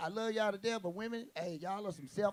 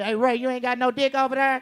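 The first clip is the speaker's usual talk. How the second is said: calling out loud; 3 semitones higher, 9 dB louder than usual. Retold or imitated. Calling out to friend Ray.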